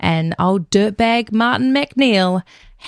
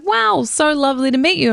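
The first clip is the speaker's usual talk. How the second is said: charmed widower; 6 semitones higher than usual. Retold or imitated. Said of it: "And he's like".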